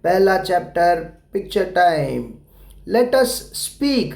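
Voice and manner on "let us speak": put-on each word drawn out slowly for kids; slow, clear model phrase; slow teaching model. Shown as a demonstration. Teacher modelling the phrase for young pupils, slowly. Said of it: "यहाँ पे आपको बोलना है".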